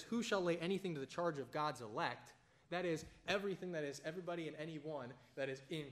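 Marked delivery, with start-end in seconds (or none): 0.0-2.3 louder, emphatic scripture reading; reading scripture aloud. Shown as a demonstration. Preacher reading Romans to his listeners, emphatic. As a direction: proclaim the verse. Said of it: "This next verse where he says".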